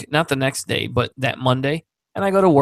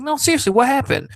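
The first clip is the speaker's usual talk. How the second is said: high-pitched, earnest pressing; raised, concerned questioning that eases into an offer; insistent concern; 8 semitones higher than usual. Retold or imitated. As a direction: imitate a boss who won't be brushed off. Boss voiced, pressing with concern.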